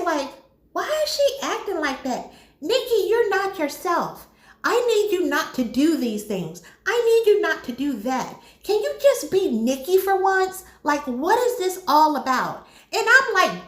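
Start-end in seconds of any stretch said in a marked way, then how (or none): 0.7-12.7 mock dismay at odd behaviour; surprised. Bear confronting Nikki about acting strangely, surprised. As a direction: imitate bewildered pleading, pitched up. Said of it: "Bear is acting surprised".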